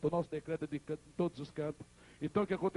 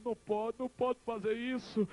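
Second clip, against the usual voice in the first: pleading; 5 semitones higher than usual. Retold or imitated. Son clings to dying mother.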